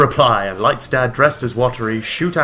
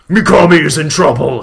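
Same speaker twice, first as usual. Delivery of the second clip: louder, higher hammed-up alarm; mock shout; 5 semitones higher, 10 dB louder than usual. Blood the Shinigami shouting the alarm. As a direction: cry out the news. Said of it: "shouted Blood".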